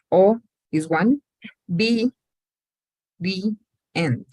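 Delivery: O, be, di, ent counted one by one; syllable by syllable, teacher counting. Shown as a demonstration. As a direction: spell out each syllable slowly. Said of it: "aquí son cuatro sílabas".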